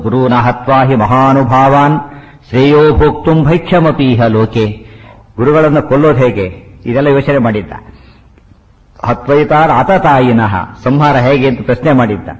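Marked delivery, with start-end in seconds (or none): 0.0-4.9 slow Sanskrit verse, evenly intoned; verse recitation. Shown as a demonstration. Teacher quoting Arjuna's plea about killing gurus, slow recitation. 9.0-10.5 slow Sanskrit verse, evenly intoned; verse recitation. Shown as a demonstration. Teacher quoting Arjuna's plea about killing gurus, slow recitation.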